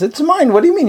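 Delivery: put-on high, childlike possessive voice; like a little girl. Wife guarding her love note from her husband, childlike and high. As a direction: clutch it like a girl guarding a treasure. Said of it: "she's like a little girl".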